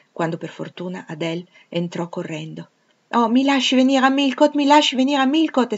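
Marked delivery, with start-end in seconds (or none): 3.1-5.7 put-on high, loud child's voice begging; a small girl pleading excitedly to come along; eager little girl. A narrator's reading. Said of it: "esclamò".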